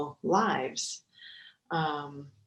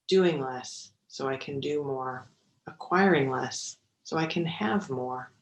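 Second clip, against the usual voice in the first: measured mindfulness book reading; 5 dB louder than usual. Acted. Mindfulness teacher reads a favorite book to meditators, measured reading. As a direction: read the passage aloud with deliberate phrasing.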